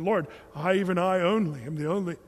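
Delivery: unconvincing complaint that loses its way; faltering presentation. Retold or imitated. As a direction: start the speech, then let it falter and sag. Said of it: "It doesn't sound so good when you're presenting it".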